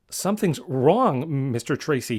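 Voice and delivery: anxious stutter; Brains, alarmed. Acted. Brains warning Mr Tracy, stammering and alarmed.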